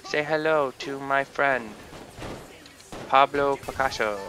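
hammed-up gangster line before firing; Scarface quote. Gamer quoting a mobster to enemies, loud mock threat. Movie quote while shooting.

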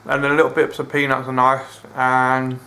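talking through a mouthful of food; chewing while talking; mouth full. Real, not acted. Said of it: "Sorry for talking with my mouth full".

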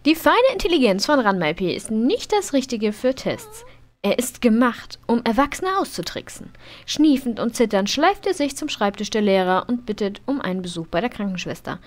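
lively narration of a game event; narrating a sim's school test playfully; story reading. Acted. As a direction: read it like a storybook. Reads game story text aloud.

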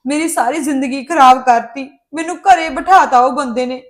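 loud, furious accusation at her mother; angry outburst. Acted. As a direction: hurl the blame at her, loudly. Daughter confronts mother angrily. (ਗੁੱਸੇ ਵਿੱਚ ਉੱਚੀ ਆਵਾਜ਼)

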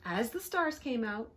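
plain reading voice

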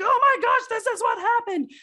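high, loud excited gush; gushing excitement. Retold or imitated. Friend venting to a steady, high excited gush. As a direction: burst out with breathless news.

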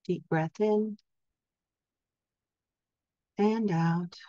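calm, measured meditation voice with long pauses; guided sleep hypnosis. Acted. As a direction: gently guide listeners into rest, leaving space for each breath. Leads a sleep hypnosis session.

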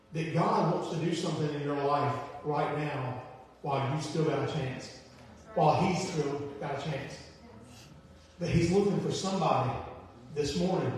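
low, soft, sober pleading; hushed earnest appeal. Real, not acted. Preacher urging listeners while there's still a chance, quietly earnest.

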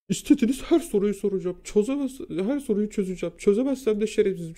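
high, loud, worked-up retold challenge; upset defiant vow. Student challenging the teacher to test him, high upset defiance. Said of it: "moralim çok bozuldu".

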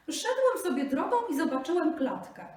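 high, loud desperate plea; pleading Brahmin. Acted. Brahmin begs the buffalo for justice, high and pleading.

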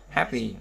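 HAP-py, stressed on HAP; first-syllable stress. Shown as a demonstration. Teacher drilling adjectives, stress on HAP in Happy. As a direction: lean on HAP in Happy, light -py. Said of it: "âm tiết thứ nhất".

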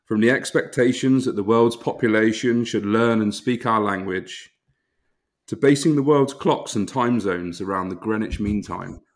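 pompous, overly formal recital of an apology; formal letter reading. Acted. Host reads mock apology letter to his co-hosts, in a pompous formal voice. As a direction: read it like a solemn official statement.

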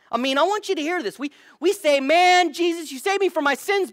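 high, loud, fast preaching push; preacher hitting full force; rising preaching. Real, not acted. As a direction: build to a shout of praise. Preacher building to climax.

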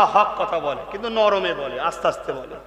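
soft mumbling. Shown as a demonstration. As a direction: demonstrate the timid speaker. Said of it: "কেউ মিনমিন করে নরম কথা".

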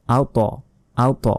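আওত with a thick t released in a little echo; rounded "at-to" kick on আওত; bounced heavy t. Shown as a demonstration. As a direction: push off the t of আওত. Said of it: "ধাক্কা দিয়ে পড়তে হয়".

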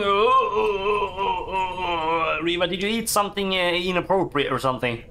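moaning oh, then fast mock concern. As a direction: groan like a sick creature, then rattle off the question. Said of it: "Who is going".

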